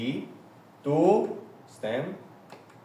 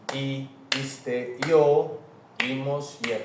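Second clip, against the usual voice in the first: endings recited to a clapping beat; rhythmic recitation; slower than usual. Shown as a demonstration. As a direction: beat out each ending for memorizing. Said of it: "we can clap".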